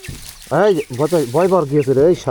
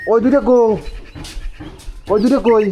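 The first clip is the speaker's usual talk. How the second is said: calling out; 8 semitones higher than usual. Real, not acted. Calling for the missing pups.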